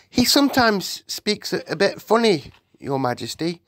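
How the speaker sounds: put-on high-pitched little girl's explanation; little Sophie. Sophie explains to the Queen, high little-girl voice.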